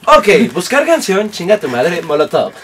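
slow, lightly put-on assistant voice; imitated voice assistant. Host mimicking the assistant mishearing a song, mock assistant voice. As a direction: play the assistant dutifully repeating a request. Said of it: "Y Siri".

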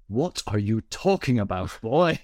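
put-on slow rebuke, pitch jumping on "boy"; retold indignant teacher. Teacher answering a pupil's wild story, indignant. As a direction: imitate a teacher's drawn-out disbelief.

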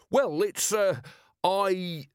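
high, halting false starts; flustered stammer. A narrator's reading. Merchant confronted by the watch commander, flustered. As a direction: falter at a high pitch, hunting for words.

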